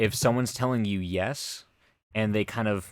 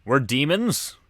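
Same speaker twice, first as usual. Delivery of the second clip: mock protest; 6 semitones higher than usual. Demon protesting in the skit.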